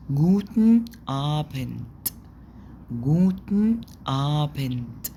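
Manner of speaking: slow "جوتن آبند" ending in a crisp t; final d as t. Shown as a demonstration. Teacher showing final d voiced as t, slow. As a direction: say "آبند" with the last sound as t. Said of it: "بتتنطق ت".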